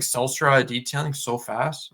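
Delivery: rushed, run-together business name; too fast. Shown as a demonstration. Podcaster shows how he used to race through his intro, too fast. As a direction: rattle it off too fast to follow. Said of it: "I'm talking real fast".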